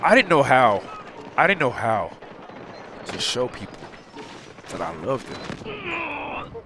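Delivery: choked up. Real, not acted. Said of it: "I'm getting choked up".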